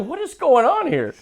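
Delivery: high, slow incredulous ask; retelling his reaction to Kidz Bop, slow and high; mock baffled. Own quote retold.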